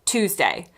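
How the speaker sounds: Tuesday said TOOZ-day, no y sound; American pronunciation. Shown as a demonstration. Teacher giving the word in own accent, American TOOZ-day Tuesday. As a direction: drop the y in Tuesday, plain TOOZ. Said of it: "in my accent, is just".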